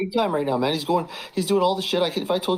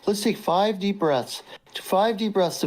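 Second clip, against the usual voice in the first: mock calming coach; 5 semitones higher, slower than usual. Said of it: "He's like, he's like".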